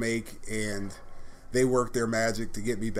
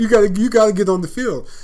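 retold coach yell; 8 semitones higher, 9 dB louder than usual. Coach insisting he plays.

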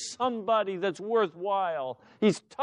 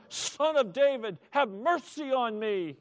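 higher, urgent cry for mercy; shouting all the more; 5 semitones higher than usual. Acted. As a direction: cry out over those hushing you. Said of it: "he shouted all the more".

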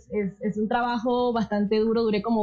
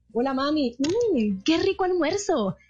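higher, slow sugary cashier tone; possessed by the cashier voice, higher and slow; cashier voice at home; 4 semitones higher, slower than usual. Retold or imitated. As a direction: talk to mom like a store announcement. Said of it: "quería hablar así a toda hora".

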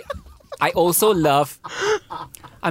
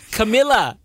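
higher, louder exclamation of the name; emphatic correction; 6 semitones higher, 5 dB louder than usual. Real, not acted.

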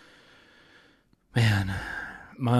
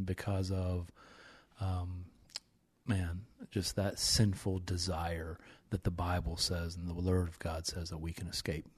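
emotional, subdued; 6 dB quieter, slower than usual. Real, not acted. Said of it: "I did get emotional".

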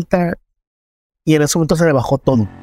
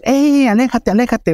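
higher-pitched imitation of jumpy youths; tense, retold warning; 8 semitones higher than usual. Jumpy young men warning him away, tense retold cry. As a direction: mimic a startled warning to back off, without much more volume. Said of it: "se crispan y me dicen".

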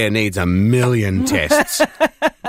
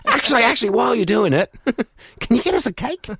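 giggling mock request; 11 semitones higher, faster than usual. Continues acted call, laughing.

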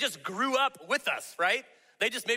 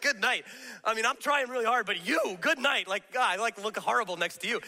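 mock despair; 4 semitones higher than usual. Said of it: "And you're like".

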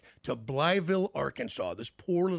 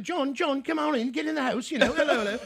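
high, louder English mom calling him in; 10 semitones higher, 4 dB louder than usual. Retold or imitated. Mom shouting for her son to come inside. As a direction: call the kid into the house like his mom.

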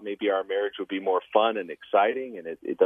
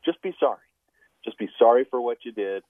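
low fervent voice; 3 semitones higher, 3 dB louder than usual. Real, not acted. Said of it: "listen to me carefully".

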